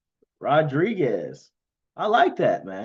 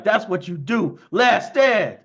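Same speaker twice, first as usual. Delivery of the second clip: proud hype; 3 semitones higher, 4 dB louder, slower than usual. Retold or imitated. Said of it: "I'm like".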